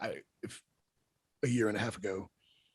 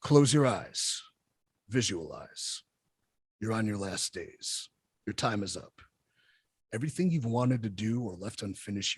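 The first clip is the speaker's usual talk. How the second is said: guided visualization; 4 dB louder than usual. Acted. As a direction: lead them through it like a meditation. Reads a motivational visualization.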